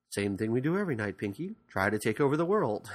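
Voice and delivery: lightly voiced cartoon mastermind; a hint of a scheming genius mouse; the Brain. Podcaster imitating the leader mouse answering his sidekick, lightly put-on voice. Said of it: "the Brain is clearly the leader".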